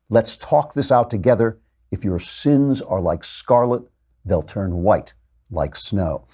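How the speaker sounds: slow, measured scripture delivery; scripture reading. Acted. God speaks to the people through Isaiah, slow solemn reading. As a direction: let each phrase of the promise land. Reads God's words from translation.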